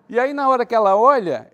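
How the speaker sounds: loud storyteller's climax; excited build-up. Real, not acted. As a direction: hit the reveal moment loud.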